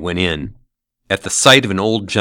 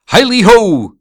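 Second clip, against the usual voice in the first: much higher and louder, whooping hail; jovial cry; 14 semitones higher, 10 dB louder than usual. A narrator's reading. Fezziwig skipping from his desk, whooping. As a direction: whoop it out with glee. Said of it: "cried old Fezziwig".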